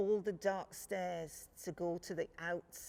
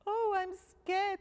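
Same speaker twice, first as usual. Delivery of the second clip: high, loud little cub voice; a small bear cub thanking sweetly; 13 semitones higher, 8 dB louder than usual. Acted.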